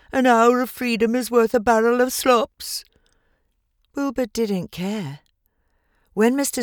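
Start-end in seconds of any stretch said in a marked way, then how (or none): 0.1-2.9 whispered goose proverb. A narrator's reading. Goose whispering its lesson to Wilbur. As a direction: hiss the warning under your breath.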